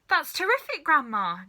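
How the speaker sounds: high, loud delighted cry; boy cheering his shrinking grandma; excited cry. A narrator's reading. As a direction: cheer her on, thrilled. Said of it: "George cried".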